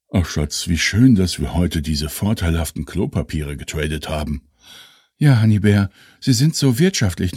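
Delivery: posh couple voices. Acted. Couple dialogue, sketch voices.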